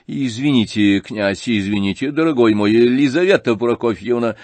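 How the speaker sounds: взволнованный генерал, громче к концу; сбивчиво, в волнении, ищет поддержки у жены; взволнованно. Acted. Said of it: "сильно волнуясь". (генерал взволнованно обращается к супруге за помощью)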